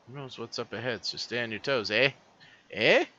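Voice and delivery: attempted Aussie accent slipping into Canadian; botched Canadian-sounding kid voice; accent drifting into Canadian. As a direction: let the put-on accent turn Canadian on "eh". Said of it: "And she's Canadian".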